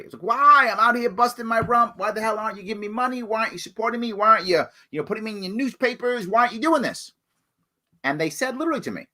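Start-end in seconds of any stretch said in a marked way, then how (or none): 0.2-7.1 retold anger. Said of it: "I was angry".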